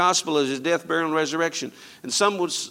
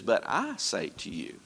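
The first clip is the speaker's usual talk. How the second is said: solemn low quote; 7 semitones lower, 6 dB quieter, slower than usual. Acted. Jesus's words quoted with weight.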